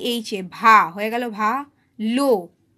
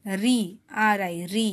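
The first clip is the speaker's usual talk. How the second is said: slow sounding out; 4 semitones lower, 3 dB louder, much slower than usual. Shown as a demonstration. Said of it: "কি হচ্ছে?".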